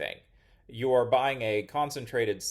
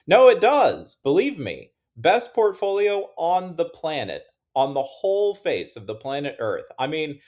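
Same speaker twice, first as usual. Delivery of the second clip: high, loud over-the-top boast; hammed-up insistence like a carnival pitch; mock hype; 5 semitones higher, 8 dB louder than usual. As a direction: oversell it with pretend fervor. Mock boast about own portfolio.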